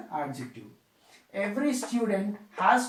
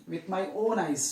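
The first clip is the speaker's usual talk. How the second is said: "own" given clear emphasis, then a fall; teacher demonstrating emphasis on "own"; stress on "own". Shown as a demonstration. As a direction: lean on the word "own". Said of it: "Stressing here".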